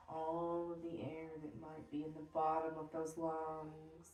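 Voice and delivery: calm breathwork cueing; guided breathing meditation. Acted. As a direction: guide the class through each breath, unhurried.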